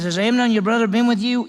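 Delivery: acted brother demanding an answer; pressing Absalom. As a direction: press her for the truth. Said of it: "He says".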